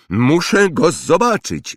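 put-on high, insistent boy's yell. A narrator's reading. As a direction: wail out a demand. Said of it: "wrzasnął Dudley". (wysoki wrzask rozkapryszonego chłopca)

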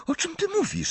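laughing. A narrator's reading. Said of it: "zapytała ze śmiechem Hermiona".

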